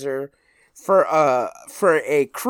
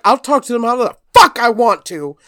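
imitating mom's defiance; 6 semitones higher, 5 dB louder than usual. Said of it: "She's like".

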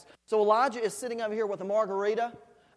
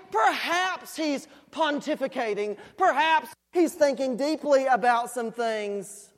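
mock speculation, raised pitch; sarcastic, higher-pitched musing; Elijah; 3 semitones higher, 4 dB louder than usual. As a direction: taunt them with pretend reasoning. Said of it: "Elijah began to taunt them".

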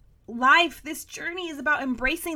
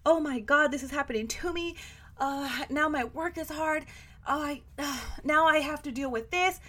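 mock victim whine; 4 dB quieter than usual. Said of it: "a victim mentality".

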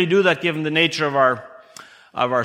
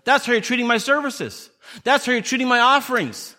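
a hint of God's rebuke, pitched higher, weight on "that's"; 6 semitones higher than usual. God confronting the people of Judah with rebuke. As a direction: lay out the charge as God, pressing each "that's". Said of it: "He says".

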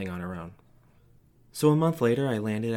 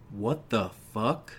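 angry father; much slower than usual. A narrator's reading. Dad confronting empty-handed kid.

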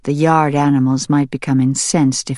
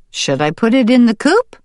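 higher, louder wife voice; wondering wife; 9 semitones higher, 4 dB louder than usual. Acted. Farmer's wife wondering aloud to the farmer, higher. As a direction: think aloud about the bird. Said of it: "the farmer's wife wondered".

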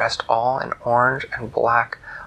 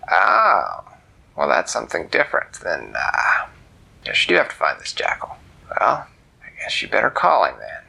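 much lower, whispery cat voice; the cat grudgingly gives in; low whispered cat; old cat; 6 semitones lower than usual. Acted.

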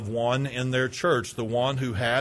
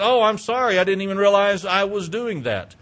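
surprised apology; 4 semitones higher, 3 dB louder than usual. Acted. Caught person apologizes, surprised.

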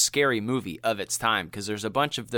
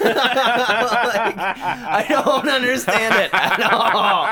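talking through laughter; can barely get words out for laughing; 11 semitones higher, 7 dB louder, much slower than usual. Real, not acted. Fan cracking up over the farmer's line, laughing loud.

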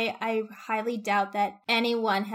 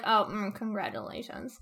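softer, flat, reluctant congratulations; grudging congratulations; 4 dB quieter than usual. Retold or imitated. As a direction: force the word out half-heartedly. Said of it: "She's like".

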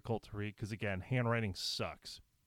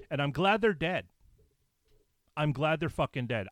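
angry outburst; 3 semitones higher, 4 dB louder than usual. Real, not acted. Furious at the killer.

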